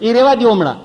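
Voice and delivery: high, loud wincing plea; high, loud begging through pain; pained pleading. Retold or imitated. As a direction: beg him to skip it, hurting. Repeated plea after laughter.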